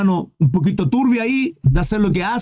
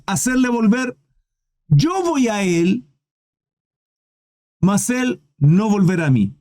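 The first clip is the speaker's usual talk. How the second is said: grieving David, slow; slower than usual. Acted. Reads David's words slowly.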